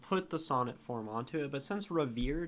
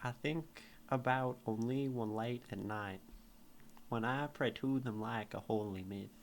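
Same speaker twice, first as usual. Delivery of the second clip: put-on Southern accent; 2 semitones lower, 4 dB quieter than usual. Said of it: "this poem is so wrong in a Southern accent".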